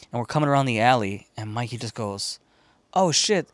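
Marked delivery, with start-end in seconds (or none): 2.9-3.5 startled, higher and louder; sudden shock at the burning roof; a kid spotting fire on the roof; alarmed. Retold or imitated.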